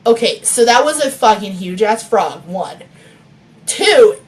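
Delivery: reading a novel aloud; story narration. A narrator's reading. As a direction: narrate the chapter steadily. Author reading her chapter aloud.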